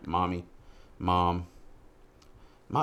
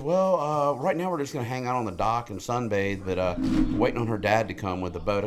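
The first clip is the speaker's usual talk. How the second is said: daughter's voice; 4 semitones higher than usual. Retold or imitated. Dad imitating daughter at the lake, higher. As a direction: play the carefree teen at the lake. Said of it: "She goes".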